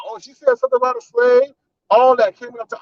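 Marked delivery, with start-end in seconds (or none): 0.1-1.5 high, fast mocking voice; mocking the guest. Commentator mocks the guest's brush-off in a high fast voice. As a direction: sneer it out high and quick like the guest.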